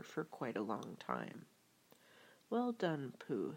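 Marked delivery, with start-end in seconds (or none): 2.5-3.5 gently approving, as a storybook Rabbit; kindly Rabbit. Acted. Rabbit praises Pooh for his rescue, lightly kindly. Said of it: "said Rabbit kindly".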